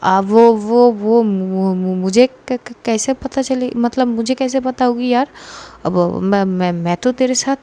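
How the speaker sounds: stumbling, choking on the words; flustered stammer. Acted. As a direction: caught off guard, stammering after a cough. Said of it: "खांसने लगती है और बोलती कि". (हड़बड़ाकर अटकते हुए)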